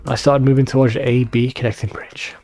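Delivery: whispered narration; whispering. Real, not acted. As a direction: whisper it, sneaking past guards. Sneaking past guards.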